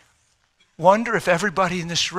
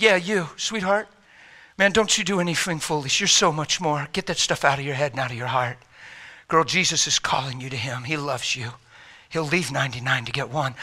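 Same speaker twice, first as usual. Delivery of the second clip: tender comfort; 3 semitones lower, 4 dB quieter than usual. Retold or imitated. Preacher voices himself comforting girl.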